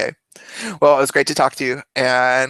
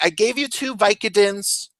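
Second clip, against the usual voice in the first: higher, weary nurse voice; 5 semitones higher than usual. Retold or imitated. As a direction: explain patiently like a nurse. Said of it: "she's like".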